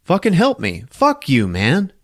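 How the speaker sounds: high-pitched mock exasperation; acted arguing. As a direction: snap back in a heated acted quarrel. Acted argument.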